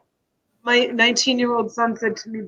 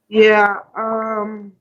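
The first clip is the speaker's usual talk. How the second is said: tearful. Real, not acted. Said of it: "Oh, I'm getting emotional".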